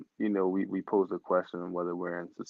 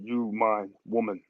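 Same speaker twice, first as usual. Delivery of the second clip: caveman voice. Retold or imitated. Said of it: "My caveman voice".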